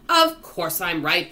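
slow, loud, weighty assertion; emphatic self-assurance. Acted. Earthworm answers the centipede, emphatic self-assurance. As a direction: lean heavily on each word.

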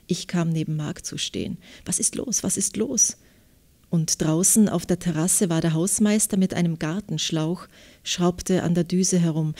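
measured literary reading with clear articulation; story narration. A narrator's reading. Author reads her novel excerpt to interviewer, literary narration. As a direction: read the novel excerpt aloud, phrase by phrase.

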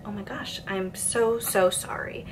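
quiet hushed sorry; timid mock apology; soft apologetic server. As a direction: apologize softly to the regular.

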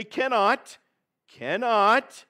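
"cannot" repeated with weight; "cannot" said twice with weight for the congregation to echo; call and response. Shown as a demonstration. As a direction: lead the church to echo "cannot". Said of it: "somebody say with me".

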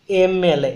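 ଏମ୍ sounded out with its opening vowel clear; pronunciation demo. Shown as a demonstration. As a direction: say ଏମ୍ ଏଲ୍ ଏ as a model, starting on the "e" sound. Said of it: "ପ୍ରୋନାଉନ୍ସ କରନ୍ତୁ". (ଏମ୍ ଏଲ୍ ଏର ସ୍ପଷ୍ଟ ଉଚ୍ଚାରଣ, ଆରମ୍ଭର ଏ ଧ୍ୱନି ଉପରେ ଜୋର)

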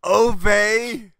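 put-on loud, high shouted Jewish accent. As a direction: yell it in a hammy Jewish accent. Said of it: "That's my Jewish accent".

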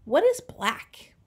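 slow breathy whisper to himself. A narrator's reading. Gorilla slowly whispering to himself while searching for black. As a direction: whisper the question, slowly pondering.

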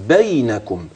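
بينكم with a short unstressed ya, not doubled; بينكم بياء ساكنة مخففة; light ya. Shown as a demonstration. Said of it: "ياء ساكنة مخففة وليست مشددة".

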